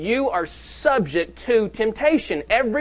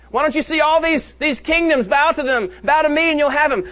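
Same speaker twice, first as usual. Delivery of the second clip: higher, coaxing tempter; lightly voiced devil, pitched up and coaxing; tempter's voice; 6 semitones higher than usual. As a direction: tempt him like the devil would. Tempter offers the kingdoms.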